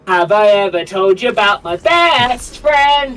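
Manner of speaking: put-on slow, loud old man voice. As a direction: lean into a creaky old man. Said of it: "You, you do the old man voice".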